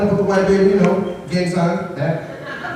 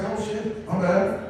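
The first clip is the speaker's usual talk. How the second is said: much softer, embarrassed; sheepish whisper-soft apology; 5 semitones higher, 8 dB quieter, slower than usual. Retold or imitated. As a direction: drop to a hushed oops. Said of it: "I'm just like".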